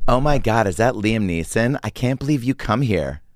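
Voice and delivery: put-on girl at the bar. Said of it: "I'll be the girl at the bar".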